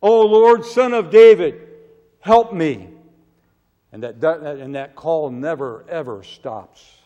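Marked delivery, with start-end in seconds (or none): 0.0-2.9 high, loud desperate plea; crying out to God. Acted. Preacher voicing a sinner crying out for mercy, loud plea. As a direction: call out to the Lord as if begging. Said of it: "to continually cry out".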